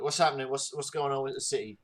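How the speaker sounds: a quick hint of an English accent; hasty English accent. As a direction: throw on an English accent in a hurry. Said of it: "hastily put on my English accent".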